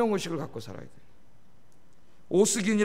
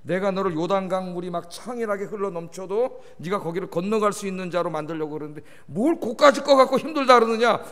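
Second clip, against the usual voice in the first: God rebuking; 2 semitones lower than usual. Retold or imitated. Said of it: "하나님 뭐라 그랬어요".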